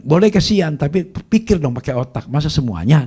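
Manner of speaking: mock exasperated telling-off; exasperated friend. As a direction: imitate a friend knocking sense into someone. Friend scolds him in retold dialogue.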